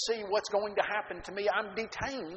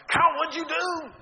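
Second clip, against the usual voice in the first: higher and louder, alarmed; alarmed friends; 10 semitones higher, 8 dB louder than usual. Retold or imitated. Buddies shout to Kyle as he returns, alarmed. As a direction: call out to him in shock.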